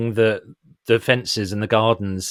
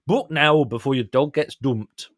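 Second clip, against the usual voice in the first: Sunderland accent. Shown as a demonstration. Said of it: "like, a, a Sunderland accent".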